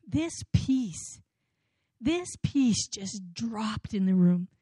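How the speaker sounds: slow, hushed whisper of wonder; hushed and reverent, slow; awed whisper. Real, not acted. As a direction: breathe it out as if the room just went still. Awe as peace fills the room.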